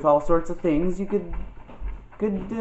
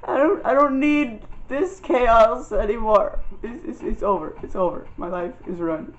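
weary raccoon voice; 7 semitones higher than usual. Retold or imitated. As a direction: play a tired raccoon giving up, fading out. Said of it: "He got tired and he's like".

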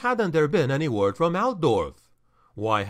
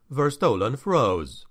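plain reading voice

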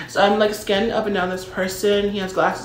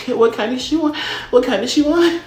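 louder and higher each time, mocking the waiter; mocking repeat; 5 semitones higher, 6 dB louder than usual. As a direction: throw his question back at him, incredulous and loud. Mocks waiter's question back loudly.

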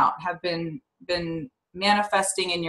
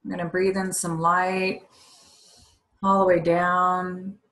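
slow, measured breathing-exercise guidance; guided meditation; slower than usual. Real, not acted.

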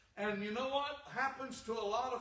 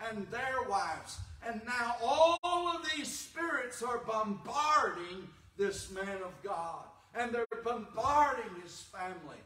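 louder, driving sermon build; rising preaching fervor; 4 semitones higher, 5 dB louder than usual. Acted. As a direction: preach it harder as the spirits close in.

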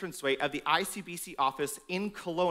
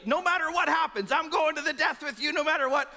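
raised, loud declaration; bold vow; 7 semitones higher, 3 dB louder than usual. Retold or imitated. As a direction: proclaim it with brash confidence. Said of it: "He said boldly".

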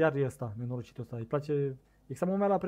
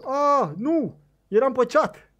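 high, loud cry of protest; dismayed outcry; 8 semitones higher, 8 dB louder, slower than usual. Real, not acted. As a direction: wail it loudly at the sudden loss. Loses a hooked fish.

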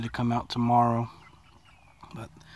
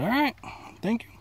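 polite quote; 11 semitones higher than usual. Retold or imitated. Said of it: "I said".

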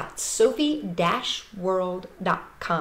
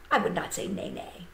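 whispered; 3 semitones lower, 5 dB quieter than usual. Pretend. Teasing wrong animal sound.

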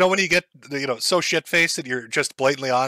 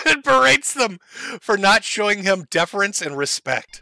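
mocking repeat; 4 semitones higher than usual. Shown as a demonstration. Commentator mocking the streamer's berating, higher sneer.

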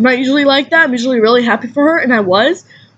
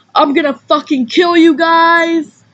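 a shouted retold threat; imitating a stranger's angry yell; mock angry threat; 5 semitones higher than usual.

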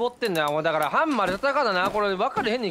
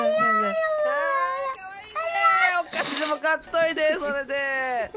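put-on high cute lisping anime girl; gap-toothed moe voice; 8 semitones higher, 4 dB louder than usual. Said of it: "歯抜け萌え声得意やからな".

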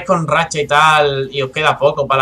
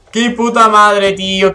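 drawn-out curse; 5 semitones higher, 4 dB louder, much slower than usual. Real, not acted. Venting after being killed.

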